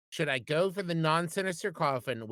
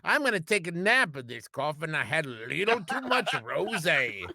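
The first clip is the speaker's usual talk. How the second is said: tipsy wine mom; 3 semitones higher than usual. Acted. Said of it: "now you're stuck in Gary".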